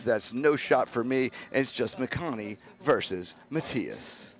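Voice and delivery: smooth poker play-by-play; announcer voice. Acted. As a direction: call the hand like a TV announcer. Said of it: "that's the announcer voice".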